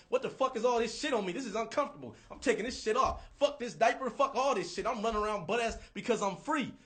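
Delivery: put-on high, loud, outraged little kid; toddler voice. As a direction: play a fed-up toddler tearing off his diaper. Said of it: "they're just like".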